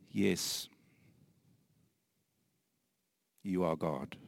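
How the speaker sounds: hushed whisper of worship; whispered yes to God. Retold or imitated. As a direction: whisper it, overwhelmed.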